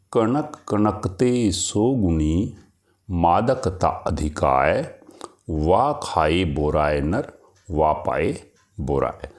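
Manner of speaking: slow, measured verse recital; poem recitation. Acted. Teacher recites a couplet to students, slow and measured. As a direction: recite the couplet slowly, savouring each word.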